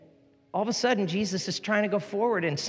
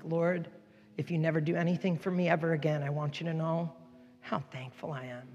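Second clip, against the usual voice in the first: heartfelt prayer; 4 dB quieter than usual. Real, not acted. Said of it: "I'm like".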